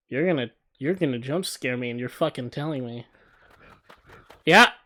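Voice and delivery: reading it with growing fear; scared horror game streamer. Real, not acted.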